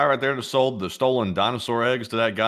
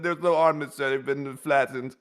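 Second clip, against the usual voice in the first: a touch of a glum aide; mock subordinate with bad news; 2 semitones higher than usual. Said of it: "He said".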